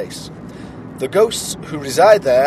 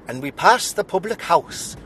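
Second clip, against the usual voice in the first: attempted Welsh accent; 3 semitones higher than usual. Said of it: "Definitely Irish".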